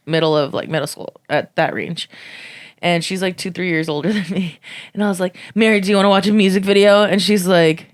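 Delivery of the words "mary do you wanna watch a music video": eager question. Retold or imitated. Asking cousin eagerly.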